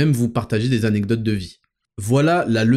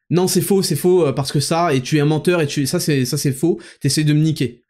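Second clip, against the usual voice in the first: acted hasty accusation; 3 semitones higher than usual. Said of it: "Si tout de suite t'avais fait".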